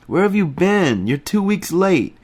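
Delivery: high, loud jovial scolding; hearty Remy. A narrator's reading. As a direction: tease him for being late, booming. Remy greeting the narrator.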